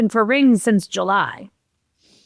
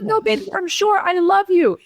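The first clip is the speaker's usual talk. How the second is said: imitating her partner; 11 semitones higher than usual. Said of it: "And he goes".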